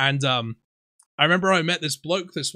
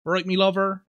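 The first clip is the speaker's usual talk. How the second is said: friendly Somerset greeting; 4 semitones higher than usual. Retold or imitated. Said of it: "It's like a friendly".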